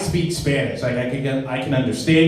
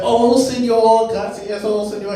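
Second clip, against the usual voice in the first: sugary act; 8 semitones higher than usual. Retold or imitated. Sweet act for the boss.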